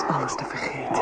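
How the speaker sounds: whispered surrender. Acted. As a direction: let the words dissolve. Drifting into embrace.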